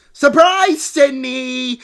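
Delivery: high, loud mock reveal; spring it on her like a gotcha; playful ta-da announcement; mock surprise.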